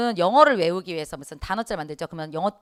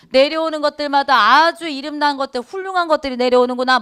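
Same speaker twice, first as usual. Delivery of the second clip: higher, louder, mockingly ironic praise; sarcastic irony; 5 semitones higher, 4 dB louder than usual. Shown as a demonstration. Chunhyang mocking the new officials with ironic praise. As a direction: sneer out the praise so it means the opposite. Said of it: "이렇게 얘기해야 돼요".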